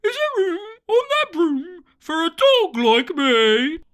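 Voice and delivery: a hopeful pup begging a ride; eager dog. Acted. Dog begging the witch for a ride, eager.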